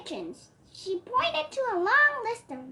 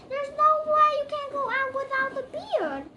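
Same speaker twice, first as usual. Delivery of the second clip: fairy voice; 8 semitones higher, 6 dB louder than usual. Acted. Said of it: "agreed the fairy".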